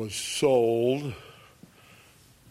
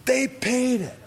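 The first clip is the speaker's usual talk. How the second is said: "They paid it" jumps up high and louder, falling; high loud repeat; 13 semitones higher, 3 dB louder than usual. Acted. Priests to each other over blood money, high loud cry.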